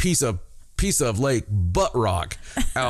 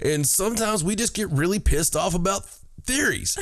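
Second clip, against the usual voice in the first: usual speaking voice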